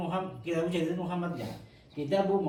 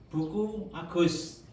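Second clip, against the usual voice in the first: slow demo; much slower than usual. Shown as a demonstration. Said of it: "pasti ada bukunya Agus".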